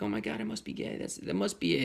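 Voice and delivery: high, soft mock freak-out; bugged out. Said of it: "that crazy moment where I bugged out".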